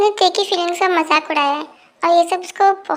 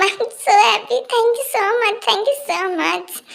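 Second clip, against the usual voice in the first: very happy; 4 semitones higher, much slower than usual. Acted. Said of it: "तू बहुत खुश है".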